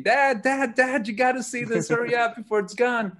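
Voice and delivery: put-on frantic kid begging dad to come look, high urgent shouts; frantic screaming. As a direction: yell for dad in a panic, voice up high. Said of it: "I'm, like, screaming".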